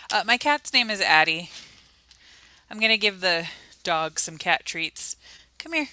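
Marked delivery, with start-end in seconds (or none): 5.6-5.9 calling the cat. Real, not acted.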